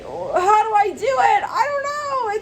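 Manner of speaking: very high, slow wail of helplessness; mock panic. Someone trying to confess something, in wailing mock panic.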